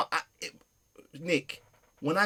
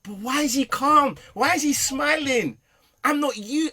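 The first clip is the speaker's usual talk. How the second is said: higher, louder puzzled questions; dad baffled that his son forgives him, higher and louder; baffled disbelief; 10 semitones higher, 6 dB louder than usual. Retold or imitated. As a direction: sound thrown by his calm. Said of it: "I'm, I'm like".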